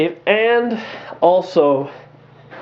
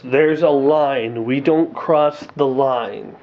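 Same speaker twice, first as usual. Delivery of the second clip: solemn superhero; 4 semitones lower, slower than usual. Retold or imitated. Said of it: "every superhero will say this".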